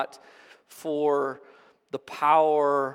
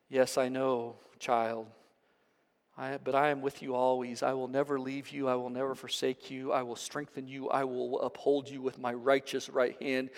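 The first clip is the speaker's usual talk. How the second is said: tender Jesus; 3 semitones lower, 5 dB quieter than usual. Acted.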